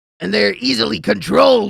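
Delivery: loud, creaky cartoon voice. Quoting Beavis and Butthead, the speaker does Butthead's part in Butthead voice. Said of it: "and then Butthead goes".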